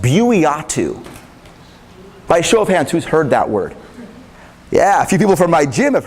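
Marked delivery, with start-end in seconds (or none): 0.0-1.0 buiatu said slowly as boo-ee-AH-too; dictionary pronouncer. Shown as a demonstration. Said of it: "The word is pronounced".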